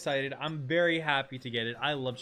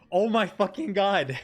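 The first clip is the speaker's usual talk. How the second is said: exasperated; 4 semitones higher, 6 dB louder than usual. Real, not acted. Game exasperation.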